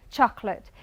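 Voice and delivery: chocolate said as two syllables, CHOC-lit; English chocolate. Shown as a demonstration. Teacher modelling chocolate for the class, CHOC-lit. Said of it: "So we eliminate this".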